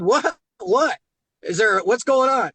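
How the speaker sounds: lightly alarmed "What? What?". Retold or imitated. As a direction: rush to ask what happened. His alarmed questions.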